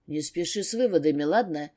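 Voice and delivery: low growling warning; growled. Acted. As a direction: growl it, holding back anger. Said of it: "рыкнул Стрельников".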